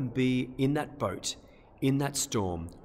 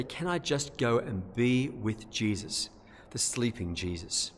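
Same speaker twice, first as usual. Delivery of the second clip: gentle hushed prayer; slower than usual. Pretend. Imagined prayer of surrender.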